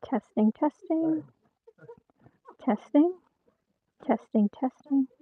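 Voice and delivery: sing-out mic test, each word rising; mic check. Real, not acted. Host testing the mic before the livestream, rising mic-check call. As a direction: test the mic with lifted, spaced-out words.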